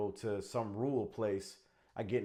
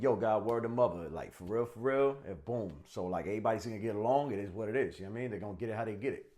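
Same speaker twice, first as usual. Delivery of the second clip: New York gangster voice. Shown as a demonstration. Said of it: "Which one would you trust?".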